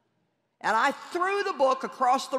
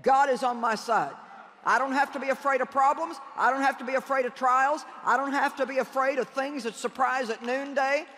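preacher's declaration. Real, not acted. Leading congregation in declarations of faith.

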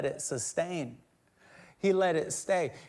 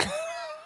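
mock devil laugh; 6 dB quieter than usual. Imitates devils laughing at people.

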